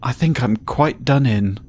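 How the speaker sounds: dramatic despair. Acted. Young man fearing his fiancée hears of it, theatrical despair. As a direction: give up dramatically, stretching the words.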